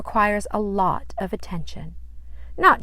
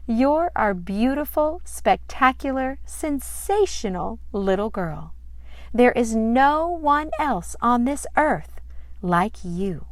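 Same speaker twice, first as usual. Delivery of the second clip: joyful praise; 5 semitones higher than usual. Acted. Daddy twirling daughter, praising.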